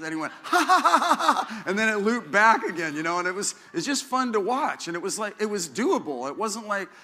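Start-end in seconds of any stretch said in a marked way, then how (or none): 0.4-1.6 loud, very high cackling laugh; retelling a hundred-year-old man's big laugh, loud and high; imitated hearty laugh. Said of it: "he chuckled and he said".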